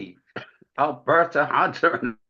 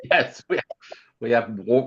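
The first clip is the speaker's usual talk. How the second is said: laughing; 3 semitones lower than usual. Real, not acted. Laughing reply to the joke.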